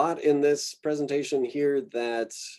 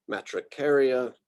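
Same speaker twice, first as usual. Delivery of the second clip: matricaria with the beat on CAR; stress on third-to-last syllable. Shown as a demonstration. Lecturer showing students genus names, antepenultimate stress on matricaria. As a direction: lean on CAR in matricaria, two light syllables after. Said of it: "pronounce that as the emphasized syllable".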